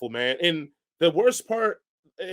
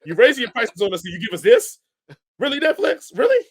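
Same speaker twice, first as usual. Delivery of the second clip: mock outrage; 3 semitones higher, 5 dB louder than usual. Real, not acted. Ranting at Netflix, rising anger.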